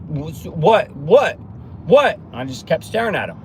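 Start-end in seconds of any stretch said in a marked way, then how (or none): 0.1-2.2 confused what. Retold or imitated. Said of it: "they're like".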